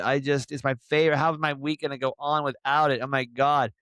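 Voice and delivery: high, slow mock-whining fan; whiny fan. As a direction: drag it out like a heartbroken fan, hammed up. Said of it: "everyone's like".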